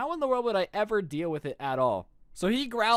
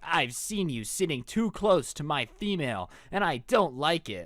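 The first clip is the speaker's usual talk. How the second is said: lightly voiced possessive werewolf, measured pace; werewolf boy; 3 semitones lower than usual. Werewolf boy warns a classmate off his female, mock menace.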